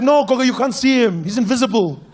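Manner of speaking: put-on high, loud eager child; excited kid. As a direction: explain it to granny. Child explaining to grandma.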